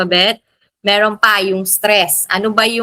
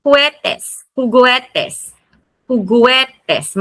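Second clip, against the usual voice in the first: juguetes raised on GUE, then falling; high on the E; 2 semitones higher, much slower than usual. Shown as a demonstration. Teacher modelling word for toys, stress on GUE in juguetes. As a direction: lift the first E of "juguetes". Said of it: "Mataas dito sa E".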